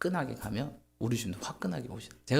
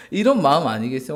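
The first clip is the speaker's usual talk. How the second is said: louder, pushing the question onto the room; emphatic rhetorical question; 3 semitones higher, 11 dB louder than usual. Real, not acted. Preacher urging the congregation, loud emphatic question. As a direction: hit 이런 hard with a rising end.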